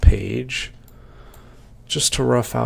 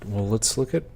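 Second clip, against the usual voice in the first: hiccuping between words; talking through the hiccups. Real, not acted. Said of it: "Excuse me for the, uh, hiccups".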